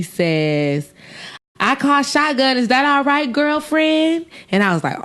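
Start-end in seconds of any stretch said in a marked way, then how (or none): 1.6-4.3 high, chummy put-on black voice; mock blaccent. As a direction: imitate a white woman faking a black voice. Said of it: "putting on her best black voice".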